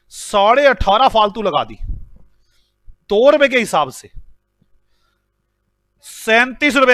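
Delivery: mock angry boss dressing down an employee; scolding demo. Shown as a demonstration. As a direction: tell him off, hammering each number. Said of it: "जरा देखना मैं सही डांट रहा हूं".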